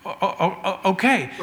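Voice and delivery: comic stammer on "okay"; mock stutter. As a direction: repeat the opening o of "okay" before getting it out. God humorously stammers back to Moses.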